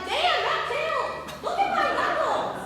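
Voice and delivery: high, loud comic complaint; loud, hammed-up ouch reaction; exclaiming in pain. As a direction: yelp about the hurt hand. Quotes own pained reaction comically.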